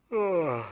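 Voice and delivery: a lightly acted sleepy yawn; a small hammed-up yawn; mock yawn. Storyteller acting out Mister Lazy's yawn, mildly mocked. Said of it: "He yawned".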